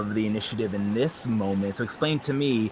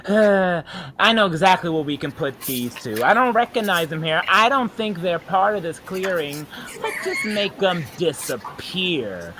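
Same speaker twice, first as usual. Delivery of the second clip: scheming creature voice; 7 semitones higher than usual. Acted. GM voices enemy creatures plotting.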